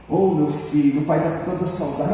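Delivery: devil faking a father's voice. Retold or imitated. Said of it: "É o Satanás falando com a voz do avô".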